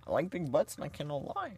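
high-pitched, mock Canadian-ish accent; playful high Canadian-style twang; almost Canadian accent. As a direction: quote it in a high, vaguely Canadian voice. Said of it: "almost Canadian".

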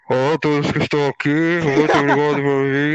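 low, monotone muffled announcement; priest on loudspeaker. Retold or imitated. Priest greeting his congregation, low loudspeaker drone. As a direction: drone it like a street vendor's loudspeaker. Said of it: "Parece o carro da laranja".

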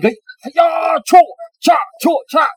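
shouted kiai and whoosh sounds; mock sword battle cry. Swordsman slicing a hanging pig, mock battle shout. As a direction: yell like a swordsman slicing, then slash noises.

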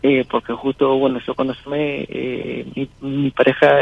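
hushed so his partner won't hear; quiet phone voice on the street; whispering on the phone. Real, not acted. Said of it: "Para que ella no escuche".

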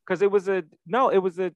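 high giggly voice through laughter; laughing. Real, not acted. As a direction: laugh while you insist. Laughing at the coat check.

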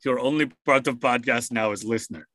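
mock Slavic accent in broken English; jokey fake Slavic accent cutting the co-host off; bad Slavic accent. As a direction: put on a cheesy Slavic accent. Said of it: "I went with the bad Slavic accent there".

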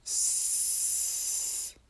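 す as a bare hiss, no vowel at all; unvoiced す without its u; voiceless s demo. Shown as a demonstration. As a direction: push the breath through the teeth on す and stop. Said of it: "母音なしで、すとやってみてください".

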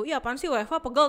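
acted mild complaint; ungrateful grumbling. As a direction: act out someone griping about aches. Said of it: "nggak ngerasa bersyukur gitu".

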